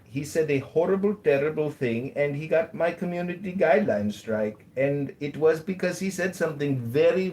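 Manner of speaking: a light, hammed-up Indian accent; mock Indian accent done with a straight face. Showing off his world-famous Indian accent to the moderator, lightly put on. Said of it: "my world-famous Indian accent".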